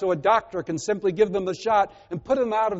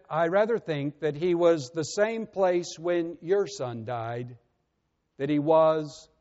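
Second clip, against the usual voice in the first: gentle; slower than usual. Retold or imitated. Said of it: "he said very gently".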